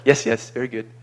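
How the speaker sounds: light Indian English lilt; a touch of Indian accent, friendly. Retold or imitated. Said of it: "I had to use an Indian accent".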